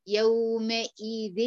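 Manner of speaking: يومئذ said very slowly with the nun merged into the ya and ghunna from the nose; slow correct recitation of يومئذ. Shown as a demonstration. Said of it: "أهي".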